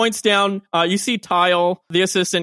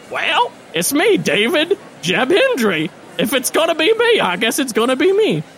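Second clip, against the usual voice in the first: raised, eager small-town mayor; mayor's voice; 5 semitones higher than usual. Acted. Mayor answering his own call to greatness, eager and raised. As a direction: lift the pitch and beam at the crowd. Mayor accepts the honor on stage.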